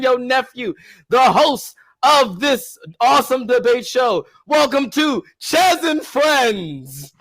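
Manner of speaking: high, shouted circus ringmaster call. Shown as a demonstration. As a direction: belt it out like a big-top ringmaster. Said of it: "new and improved Three Count Podcast intro".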